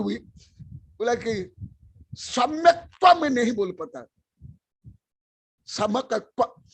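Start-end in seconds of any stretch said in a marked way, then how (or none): 5.7-6.6 समकत्व said as "samkatva", the cluster simplified; mispronounced word. Shown as a demonstration. Guru showing students their wrong समकत्व. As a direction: show the common wrong way, समकत्व with a plain k and no cluster. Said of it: "ऐसे बोलते हैं".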